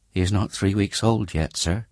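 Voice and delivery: a hint of a tired young mother. Mother telling Bucket her baby's age, lightly voiced.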